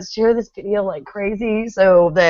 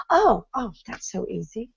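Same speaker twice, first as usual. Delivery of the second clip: higher oh, then dropping soft; mock realization; 3 semitones higher, 5 dB quieter than usual. Student shown how to do it, mock realization. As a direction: imitate someone suddenly getting it.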